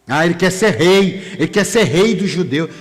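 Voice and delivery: loud imitation of jeering accusers; mock accusation. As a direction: fling the charge out as a retold taunt. Voicing accusers of Jesus.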